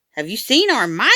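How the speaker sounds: a lightly voiced kindergartner, high and eager; little boy crying out. A narrator's reading. Steve the kindergartner calls out for his lost mice, lightly voiced high and eager. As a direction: call out like a small kid looking for pets. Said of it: "Steve cried".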